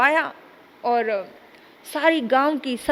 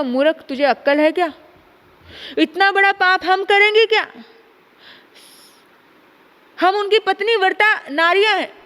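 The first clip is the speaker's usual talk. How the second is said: raised, indignant rebuke of a fool; outraged scolding; 4 semitones higher than usual. Acted. Queen rebukes Uddhav for this sinful request, outraged. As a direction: scold him for even suggesting it.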